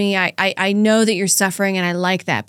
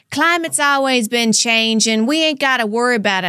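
imitating parents; 2 semitones higher than usual. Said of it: "people like my parents that are just like".

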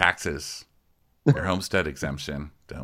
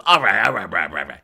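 Frank; 4 dB louder than usual. Retold or imitated. Frank giving in to Dolores, loud mock exasperation. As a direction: cut in with put-on impatience. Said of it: "He goes".

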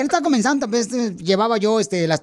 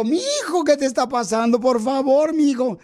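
higher, pleading mock-tearful mother; a hammed-up weepy mother's plea; imitating crying mom; 4 semitones higher than usual. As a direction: play the worried mother begging her son. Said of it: "Mi mamá me habla llorando".

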